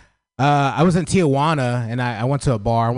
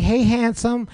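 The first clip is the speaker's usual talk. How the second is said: high-pitched mock flirty woman; 10 semitones higher, slower than usual. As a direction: imitate a woman's flirty greeting. Voices women giving compliments.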